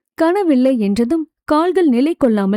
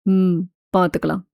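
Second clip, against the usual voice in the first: self-consoling; 5 semitones lower than usual. A narrator's reading. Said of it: "தனக்குத்தானே ஆறுதல் சொல்லிக்கொண்டு".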